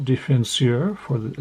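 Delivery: mock French pronunciation of a hockey position; French accent. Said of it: "My French accent is amazing".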